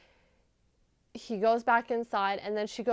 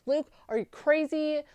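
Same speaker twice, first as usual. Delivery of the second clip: higher, exasperated scolding "are you crazy"; 5 semitones higher than usual. Retold or imitated. Fan yelling at Luke on TV, exasperated. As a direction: scold him like he blew it. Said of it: "I was like".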